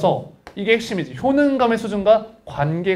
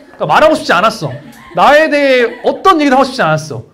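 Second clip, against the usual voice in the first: laughing emphatic outburst; 5 semitones higher, 8 dB louder than usual. Real, not acted. Venting about hated meetup.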